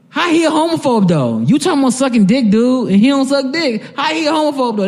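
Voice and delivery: high-pitched protest in disbelief; incredulous. Retold or imitated. Repeats his disbelief at the scene.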